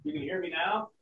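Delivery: muffled bad mic with echo; echoing bathroom. Real, not acted. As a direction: voice bouncing off tiles. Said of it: "You sound like you're in the bathroom".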